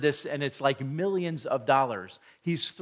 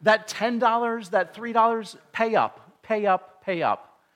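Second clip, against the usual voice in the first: higher and louder, pushy demand; demanding creditor; 6 semitones higher, 5 dB louder than usual. Retold or imitated. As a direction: hound the neighbors for every dollar. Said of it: "and says".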